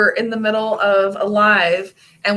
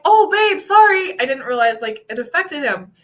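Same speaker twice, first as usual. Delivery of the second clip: mock apology; 6 semitones higher than usual. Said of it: "And I'm like".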